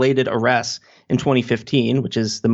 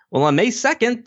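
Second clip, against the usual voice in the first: ordinary talk, nothing marked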